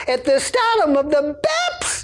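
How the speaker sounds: very high, rising, mounting build-up. Storyteller showing how they build toward a line by repeating it, a little louder and higher. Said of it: "my voice gets a little bit louder and a little bit higher".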